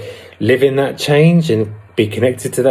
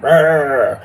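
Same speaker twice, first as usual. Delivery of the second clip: ego growl; 5 semitones higher than usual. Retold or imitated. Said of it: "And it's a loud voice".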